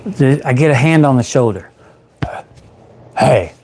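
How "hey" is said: lightly raspy woman's hey. Retold or imitated. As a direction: give a hint of a raspy rasp. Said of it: "it was like a raspy voice".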